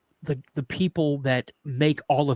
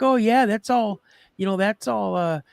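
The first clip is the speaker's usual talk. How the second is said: imitating daughter; 5 semitones higher than usual. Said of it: "She's like".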